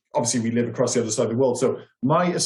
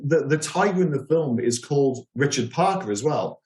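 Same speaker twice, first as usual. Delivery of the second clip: ordinary talk, nothing marked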